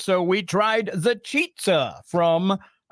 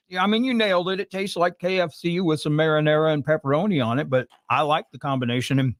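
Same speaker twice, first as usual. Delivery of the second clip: talking with mouth full; words round a mouthful of chicken. Real, not acted. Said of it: "Sorry, I'm talking with my mouth full here".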